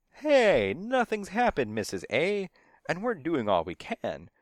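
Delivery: high, loud burst of protest. A narrator's reading. Man interrupts the woman's warning, high loud protest. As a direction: cut in high and defensive.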